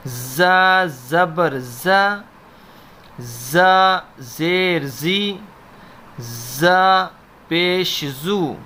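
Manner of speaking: "زا" "زی" "زو" with a hard, firm z, slowly. Shown as a demonstration. Teacher shows students how za is read firmly. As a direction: press the z of "زا" firmly. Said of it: "سختی سے پڑھیں گے".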